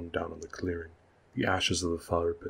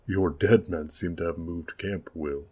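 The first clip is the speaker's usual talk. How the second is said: mocking; 3 dB louder than usual.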